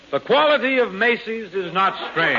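stiff script reading. Acted. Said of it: "read it".

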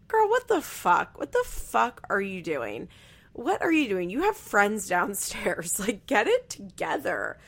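playful disbelief at someone's behavior; exasperated. Acted. Host scolding crying woman with friends downstairs, exasperated.

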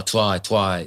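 "twy" for "try", the R softened to a W; "twy", with a W-like soft R. Shown as a demonstration. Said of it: "he's got a slight soft R".

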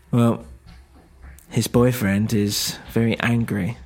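lightly voiced Eastern European woman; Eastern European accent. Nicola explaining who hurt her, Eastern European accent.

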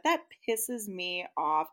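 slow, measured statement of annoyance; frankly annoyed. Real, not acted. Listener repeating her verdict on the rule, frankly annoyed. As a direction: say it deliberately, word by word. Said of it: "I will just flat out say that".

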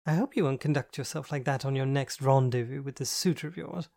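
flamboyant friend, teasing. Acted. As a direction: tease her like a theatrical best friend. Andy's flamboyant voice.

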